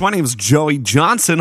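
new DJ take, level and even; a fresh radio persona intro. Acted. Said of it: "a new radio voice".

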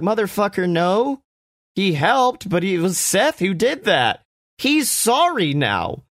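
high, heated comeback that slows at the end; exasperated retort. Retold or imitated. The speaker answering Dominic, exasperated and high. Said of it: "And I'm like".

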